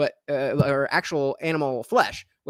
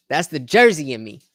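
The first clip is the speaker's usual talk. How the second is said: Jersey accent; 2 semitones lower, 5 dB louder than usual. Real, not acted.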